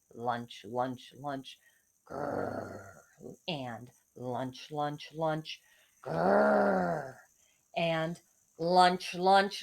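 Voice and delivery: sneak in like hungry wolves, then growl. Acted. Hungry wolves creeping toward the sheep, growling.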